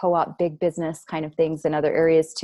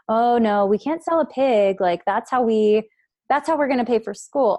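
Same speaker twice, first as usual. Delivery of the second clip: mock-pleading wife; 4 semitones higher, 4 dB louder than usual. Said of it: "role play in the skit".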